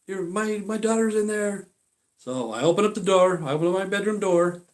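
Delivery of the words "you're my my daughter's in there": mimicking her. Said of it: "You know".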